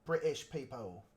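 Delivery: lightly imitated British voice; go-to British accent. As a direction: put on a rough British accent. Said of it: "that's my go-to".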